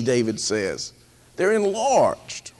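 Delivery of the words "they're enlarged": whispered quote. Acted. Quoting David's troubled heart.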